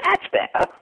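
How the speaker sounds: high, breathy English punchline; English accent. Retold or imitated. Joke father pleased, high English accent. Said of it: "you did the accent well".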